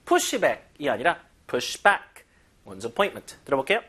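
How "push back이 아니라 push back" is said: "Push back" first, then "push back" with "back" hit; wrong then right stress. Shown as a demonstration. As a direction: contrast the stress on "back", slow. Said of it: "강세 뒤에 가야 돼요".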